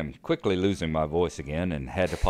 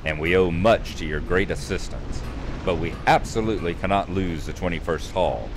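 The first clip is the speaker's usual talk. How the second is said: louder, declaiming storybook read of the quest; quest text reading; 4 dB louder than usual. Acted. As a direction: read the quest dialogue out like a narrator. Reads quest text aloud.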